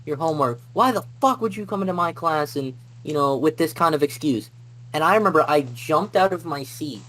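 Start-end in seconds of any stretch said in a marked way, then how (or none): 0.0-4.5 mock angry teacher yell, held back in volume; retold yelling. Teacher confronts student over missing homework, mildly acted yelling. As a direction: imitate a teacher blowing up, slightly raised pitch. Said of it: "starts yelling in my face".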